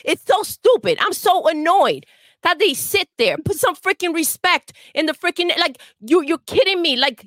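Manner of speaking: worked-up ranting at reviewers; blacked-out rant. Real, not acted. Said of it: "I blacked out a little bit".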